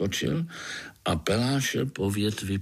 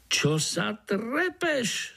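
slow, higher Slovak scolding; 12 semitones higher, much slower than usual. Acted. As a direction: chide him in Slovak. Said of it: "spustil zase po svém dunajský komár".

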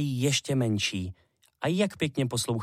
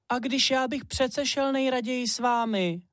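little hare pleading; 12 semitones higher than usual. Acted. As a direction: beg mum to wait, small and eager.

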